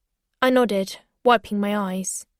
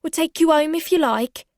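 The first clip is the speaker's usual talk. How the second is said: higher, falsely kind offer; barman voice; 6 semitones higher, 4 dB louder than usual. A narrator's reading. Barman offering the drugged girl a lift, falsely kind. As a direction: sound helpful but menacing. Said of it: "said the barman".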